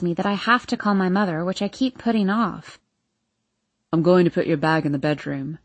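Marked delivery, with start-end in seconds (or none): 3.9-5.6 low male character voice; Hardin announcing. A narrator's reading. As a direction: announce it in a lowered man's voice. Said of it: "Hardin announces".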